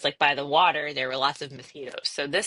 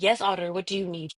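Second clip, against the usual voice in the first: lightly put-on professional phone voice; Harvard voice; faster than usual. Employee takes the auditor's call in Harvard voice. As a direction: answer politely with a touch of office polish. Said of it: "here comes the Harvard voice".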